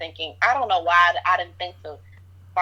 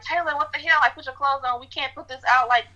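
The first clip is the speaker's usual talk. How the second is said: retold scream; 6 semitones higher than usual. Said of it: "I'm screaming at the top of my lungs".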